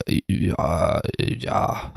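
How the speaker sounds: put-on a deliberately awful Russian accent for a hitman; mock Russian gangster accent, lightly done; terrible Russian accent. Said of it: "that was a terrible accent".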